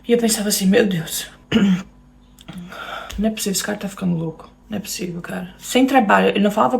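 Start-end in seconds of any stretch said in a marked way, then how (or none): 0.7-5.5 quiet, quick mutter to herself; disbelieving mutter. Retold or imitated. To herself, doubting the husband's move plan, quiet disbelieving mutter. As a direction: mutter it under your breath, stunned.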